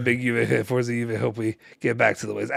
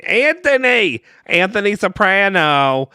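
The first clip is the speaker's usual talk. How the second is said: mock exclamation; 7 semitones higher, 4 dB louder, slower than usual.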